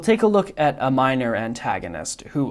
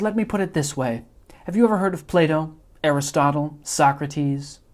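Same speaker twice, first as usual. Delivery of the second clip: higher, fast, boastful schemer; Wallace Shawn's Vizzini; 4 semitones higher than usual. Acted. Vizzini boasting to the Man in Black, high and quick. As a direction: rattle off the names like a smug know-it-all. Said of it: "mimicking Wallace Shawn's inflection".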